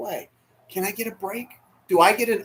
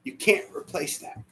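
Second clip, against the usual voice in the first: soft unvoiced words; almost whisper it; hushed grief; 6 dB quieter than usual. Real, not acted. Grieving man quietly tells the congregation.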